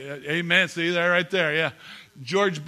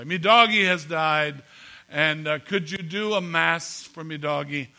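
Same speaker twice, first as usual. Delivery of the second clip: put-on Irish accent; 4 dB louder than usual. Bereaved dog owner asking a priest for a mass, Irish accent. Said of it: "This is my Irish accent".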